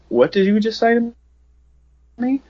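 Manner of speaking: high, menacing movie-villain voice. Retold or imitated. Dad turning on his son over the weed, mock villain menace. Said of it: "like, villain of the movie shit".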